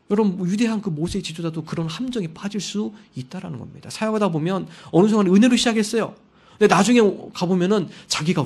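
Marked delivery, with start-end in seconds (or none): none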